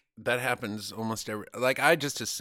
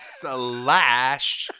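louder mock German "Slash."; a hint of German in "Slash."; German accent; 9 dB louder than usual. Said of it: "most German accent of the word slash".

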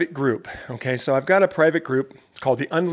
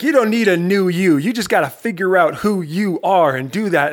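a hint of a fired-up coach, louder; imitating Tim Grover; 4 semitones higher, 5 dB louder than usual. Host quoting coach Tim Grover with fired-up conviction. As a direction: quote the coach with energy. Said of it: "he's just like".

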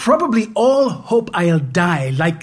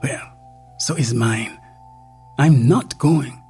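muttering; 3 semitones higher than usual. Acted.

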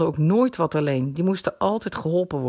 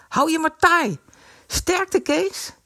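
family heckling fat Kees, jeering; 10 semitones higher than usual. A narrator's reading. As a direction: taunt him as he leaves. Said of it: "hoonden de leden van de familie Brummer".

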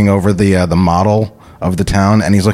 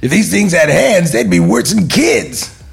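Beetlejuice voice; 8 semitones higher than usual. Acted. Player voices Beetlejuice for his friend. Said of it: "the best Beetlejuice line I've done yet".

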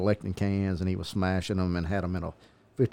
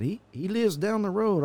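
high-pitched mock Hispanic accent; 11 semitones higher than usual. Passerby points out where the owner lives, mock Hispanic accent. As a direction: imitate a Hispanic man, pitched well up. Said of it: "Is that your Hispanic accent?".

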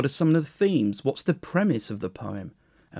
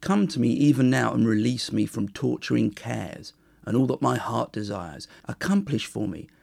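measured, earnest reading of an ancient ode; poem reading. Acted. Podcaster reading Sappho's ode to Aphrodite, measured and earnest. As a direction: read it like a solemn prayer to a goddess.

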